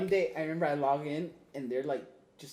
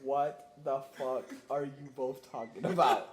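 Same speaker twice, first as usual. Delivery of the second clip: slow bewildered question; 4 semitones lower, much slower than usual. Retold or imitated. Bewildered onlooker joining chat.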